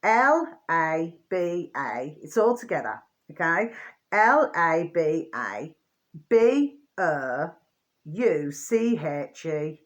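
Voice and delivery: each letter slow and separate; dictating letters slowly to viewers; spelling out letters. Shown as a demonstration. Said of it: "I'm just gonna spell it out for you".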